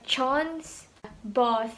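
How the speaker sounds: "chons" and "both" with an open, back "ah"; British long A. Shown as a demonstration. Teacher giving vowel A examples, British long A. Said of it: "ya vokal A gitu".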